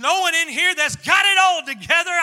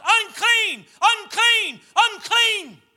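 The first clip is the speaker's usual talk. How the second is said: higher and louder, a retold warning cry; calling out unclean; 6 semitones higher, 4 dB louder, slower than usual. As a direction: call it out three times like a public warning. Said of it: "she had to yell out three times".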